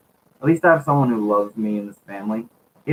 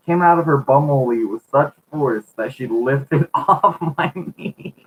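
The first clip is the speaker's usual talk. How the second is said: laughing through the line. Real, not acted. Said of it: "read this entire sentence without laughing".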